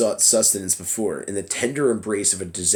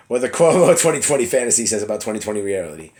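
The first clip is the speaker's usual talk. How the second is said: louder and fast, a laugh breaking through; laughing reread; 6 dB louder, faster than usual. Real, not acted. Reader retrying the headline after flubbing it, still laughing.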